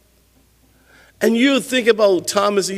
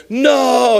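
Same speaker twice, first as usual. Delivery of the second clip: put-on high, loud little girl's wail of dismay; girl's cry; 7 semitones higher, 4 dB louder than usual. Little girl sees her balloon slip from her hand, crying out. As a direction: cry out as the balloon slips away.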